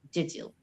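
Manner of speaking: did you run together as "didju"; linked J sound. Shown as a demonstration. Student giving example of rule, did you as "didju". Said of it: "then we make a J sound".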